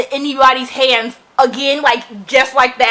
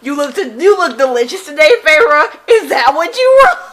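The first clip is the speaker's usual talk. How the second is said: mock sultry read. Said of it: "she's like".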